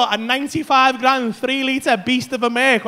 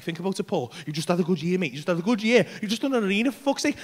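lower, softer mock coaxing; persuasive; 7 semitones lower, 7 dB quieter, faster than usual. Wee brain talking him into the car, persuasive. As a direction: coax like a sly inner voice, imitated. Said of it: "starts getting all persuasive on me".

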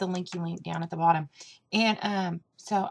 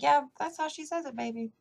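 put-on indulgent reply to child; 7 semitones higher than usual. Woman agreeing with her little sister, indulgent. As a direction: humour a child sweetly. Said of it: "And I was like".

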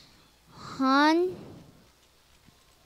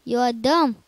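mock scold; 7 dB louder than usual. Scolding himself twice.

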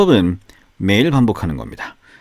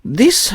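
"This" with the pitch lifted at its end; rising tune on THIS; 12 semitones higher than usual. Shown as a demonstration. Teacher shows the question ending, "This" sliding upward. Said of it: "하고 끝을 올려줘야죠".

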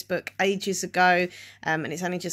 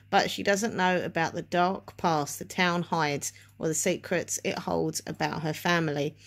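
careful speech around a sore tongue; talking around a mouth ulcer. Real, not acted. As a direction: speak gingerly, the tongue hurts. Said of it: "really quickly gonna read the back to you".

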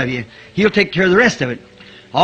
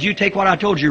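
ordinary delivery

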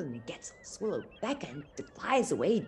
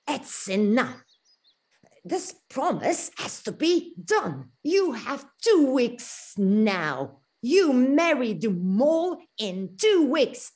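slow, firm, louder order; stern mouse; 3 semitones higher, 5 dB louder, slower than usual. Acted. Stern guardian orders Thumbelina to marry the mole, slow and firm. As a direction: lay down the law, word by word.

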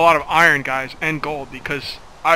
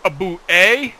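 hammed-up Canadian, higher and louder, ending on eh; mock Canadian accent; 3 semitones higher, 5 dB louder than usual. Gamer mocking Canadians, mock Canadian accent. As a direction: play a cartoon Canadian asking what. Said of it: "And they always say".

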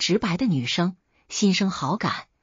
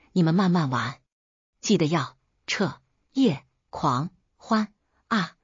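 sweet smiling taunt. Acted. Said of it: "微笑道".

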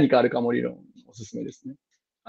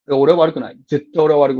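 put-on a child's defiance, said louder; defiant child; 6 dB louder than usual. A defiant student answering the teacher, louder. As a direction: insist hard that it's not your fault, voice raised.

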